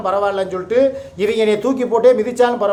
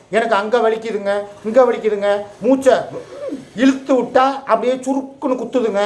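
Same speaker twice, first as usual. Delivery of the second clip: higher, whiny mock voice with a laugh; mocking wife's complaint; 3 semitones higher than usual. Husband mocks his wife's pain complaints in a higher, whiny voice. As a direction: parody her moaning about aches. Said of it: "சொல்றீல".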